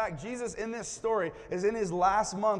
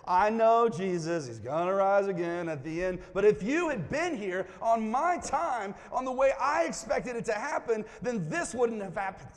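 a hint of an exasperated Martha, louder and higher; Martha's complaint; 4 semitones higher, 4 dB louder than usual. Preacher imitating Martha scolding Jesus, louder and higher. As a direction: push it like a sister who wanted it her way. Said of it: "exactly how she said it".

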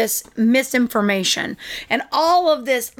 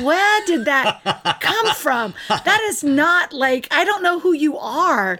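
mock surprise; 4 semitones higher, slower than usual. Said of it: "And you're like this".

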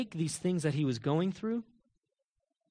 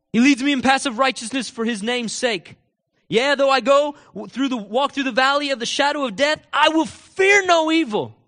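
preached scripture; 8 semitones higher, 8 dB louder than usual. Acted. Preacher reciting David's psalm to the congregation, declamatory. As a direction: build to a defiant, loud finish.

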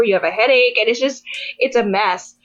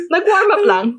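"Nag-warm up lang" higher, with a laughing break; "Nag-warm up lang" pitched up, amused; laughing punchline; 7 semitones higher than usual. Shown as a demonstration. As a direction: hit the repeat as the joke.

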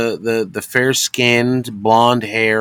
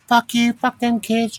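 mock screaming; 12 semitones higher, slower than usual. Imitating a man yelling at his ex, mock scream. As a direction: imitate a screaming rant in a high, slow voice. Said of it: "just screaming and yelling at his ex-baby mom".

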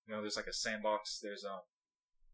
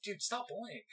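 higher, softer mock chiding; lightly giggled mock telling-off; retold teasing laughter; 8 semitones higher, 5 dB quieter than usual. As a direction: imitate brothers teasing through laughter. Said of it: "like, laughing at me".

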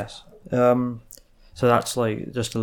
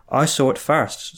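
squeaky; 5 semitones higher, 6 dB louder, slower than usual. Acted. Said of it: "squeaks Sniff".

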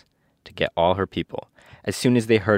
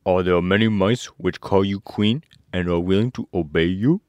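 lightly voiced scarecrow, louder; a hint of an inquiring scarecrow; 5 dB louder than usual. A narrator's reading. Scarecrow asking the queen about her subjects, lightly put-on voice.

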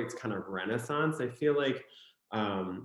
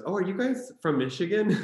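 higher, louder curious question; surprised question; 9 semitones higher, 5 dB louder than usual. Retold or imitated. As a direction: imitate an excited stranger asking. Retold stranger's surprised question.

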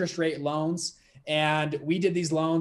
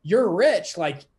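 higher and louder, in disbelief; incredulous protest; 3 semitones higher, 4 dB louder than usual. Retold or imitated. To the mentor, insisting his dad is poor, incredulous. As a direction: plead like it's obvious he's rich. Retold pleading with rich mentor.

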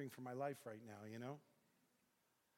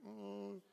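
nervous oh; 7 semitones higher than usual. Retold or imitated. Told to come with biker.

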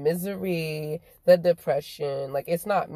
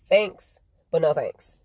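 mock nice; 4 dB louder than usual. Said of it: "say it so nicely".

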